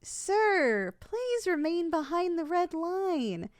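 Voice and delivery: slow, deliberate official warning; firm warning. Acted. Salesperson warns customer to stay behind the red line, firm warning. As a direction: warn him back, drawing the words out.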